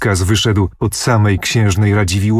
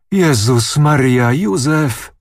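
a startled, higher cry for help; frightened cry; 5 semitones higher, slower than usual. A narrator's reading. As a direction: gasp it out, pitch jumping up on Józef. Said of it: "wołała panna Kulwiecówna". (przestraszony okrzyk)

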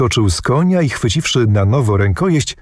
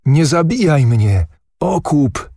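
pleading call; 6 semitones higher than usual. A narrator's reading. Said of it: "zawołał prędko".

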